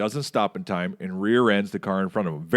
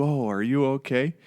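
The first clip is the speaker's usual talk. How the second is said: gently solicitous, slightly raised pitch, imitated; sudden concern; 4 semitones higher than usual. Retelling driver's instant turn from irate, mock concern. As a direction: act out instant softening into care. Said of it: "He went from irate to".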